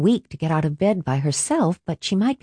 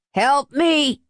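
a raised cry, pitched up; 8 semitones higher than usual. A narrator's reading. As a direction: call out for help, moderately. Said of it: "he cried".

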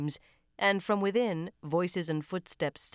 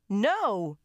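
loud, higher scream of no; 5 semitones higher, 5 dB louder than usual. A narrator's reading. Lucy screaming at McGovern in panic, loud. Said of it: "Lucy screamed".

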